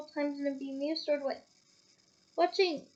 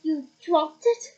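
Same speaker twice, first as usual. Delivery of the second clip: slow, louder disbelieving echo; slow doubting echo of the boy's claim; disbelief; 7 dB louder, slower than usual. Acted. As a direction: repeat it slowly, doubting. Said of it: "repeated Mister Diggory in disbelief".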